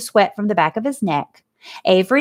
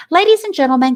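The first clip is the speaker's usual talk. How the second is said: grand announcer; 8 semitones higher, 5 dB louder, faster than usual. A narrator's reading. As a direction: boom it out to the whole grandstand. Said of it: "continued the loudspeaker".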